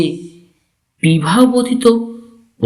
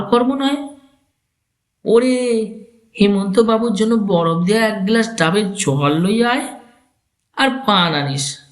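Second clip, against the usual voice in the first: put-on dismissive old man; 5 semitones higher than usual.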